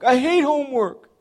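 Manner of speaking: put-on high, loud kid complaint; whiny child. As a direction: whine it like a child who hates homework. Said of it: "That's how kids reply".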